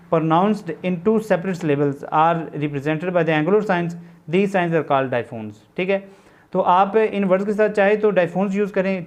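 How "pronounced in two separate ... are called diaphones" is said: word by word, spelled out slowly for notes; slow classroom dictation of a definition. Shown as a demonstration. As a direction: dictate it so students can write along.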